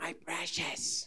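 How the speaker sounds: hushed, breathy, whispered creature voice. Retelling what the weird animal says about the ring: Gollum voice. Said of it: "he goes".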